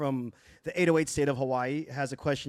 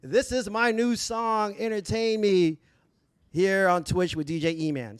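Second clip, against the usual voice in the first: radio intro voice; 3 semitones higher than usual. Shown as a demonstration. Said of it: "Like we do on the radio".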